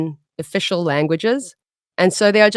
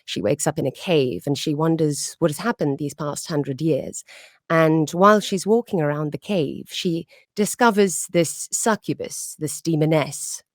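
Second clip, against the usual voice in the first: hushed, measured vampire storyteller; old world vampire; 4 dB quieter than usual. Acted. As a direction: speak softly and unhurriedly as an ancient vampire. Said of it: "her voice is more like this".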